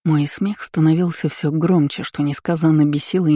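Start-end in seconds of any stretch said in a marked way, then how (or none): none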